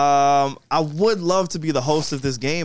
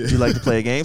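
Saw voice impression; 5 semitones lower than usual. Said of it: "she sound like Saw".

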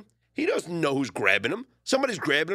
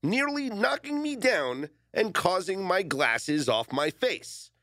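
slow, drawn-out quoting; deliberate, theatrical read-aloud; dramatic quote reading; 3 semitones higher, slower than usual. Retold or imitated. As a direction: stretch each phrase of the statement for effect.

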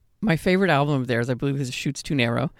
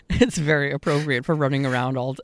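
laughing; 3 dB louder than usual. Real, not acted. Joking about kids' team name.

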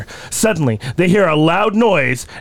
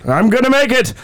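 stubborn reply; 5 semitones higher than usual. Acted. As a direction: insist you will make it. Contrasting voices in mock summary.

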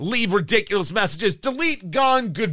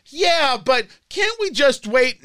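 mock pleading quote; 5 semitones higher, slower than usual. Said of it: "we're really going to say".

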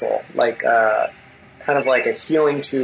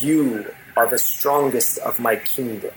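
unearthly king. Acted. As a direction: speak down to the generals as a menacing ruler. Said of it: "And with this unearthly voice".

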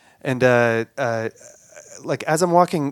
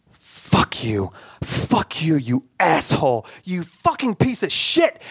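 cursing. Retold or imitated. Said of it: "all I could do was just curse at him".

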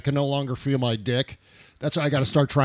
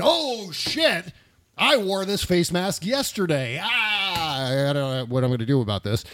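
mock panic; 3 semitones higher than usual. Acting out panic in car ad.

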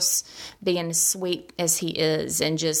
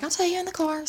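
high, tearful mock whine; retold crying on the phone; imitated crying; 11 semitones higher, much faster than usual. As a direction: put on a weepy, pleading voice. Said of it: "and I'm crying".

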